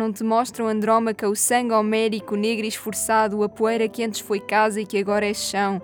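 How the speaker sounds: dramatic, intense poem declamation; theatrical poetry recitation. Acted. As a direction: recite it like a stage actor, full of emotion.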